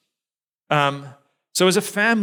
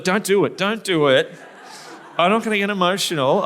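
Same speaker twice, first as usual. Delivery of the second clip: urgent pleading with himself, pitched up and louder; a man bracing against tears at the table; inner self-talk; 6 semitones higher, 4 dB louder than usual. Retold or imitated. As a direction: talk yourself out of tearing up. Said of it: "and I thought".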